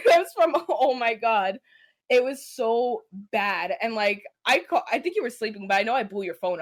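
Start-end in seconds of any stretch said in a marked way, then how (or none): 0.0-3.7 laughing through the words, slow at the end; laughing disbelief. Real, not acted. Woman laughs to her co-host about the awful date, laughing. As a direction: laugh it off, then linger on how bad it was.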